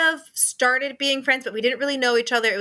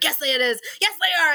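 mock defiant protest; 6 semitones higher than usual. Retold defiant arguing while fleeing.

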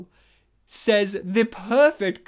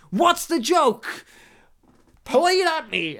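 character voice; 8 semitones higher, 5 dB louder, slower than usual. Retold or imitated. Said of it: "he's like".

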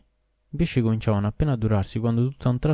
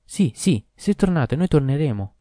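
higher, louder fish voices answering; fish chorus; 5 semitones higher, 4 dB louder than usual. A narrator's reading. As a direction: pipe up together like fish. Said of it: "così gli risposero".

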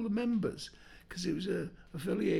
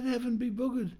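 cheeky punchline voice; 7 semitones higher than usual. Acted. Arthur punchline in joke.

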